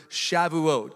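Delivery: Shavuot said slowly as sha-vu-OT; Hebrew word. Shown as a demonstration. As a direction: spell out Shavuot slowly, stress on the last syllable. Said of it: "Can everybody say that?".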